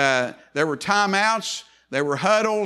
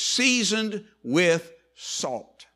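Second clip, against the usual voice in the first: drawn-out quote; much slower than usual. Shown as a demonstration. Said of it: "This is an interesting statement".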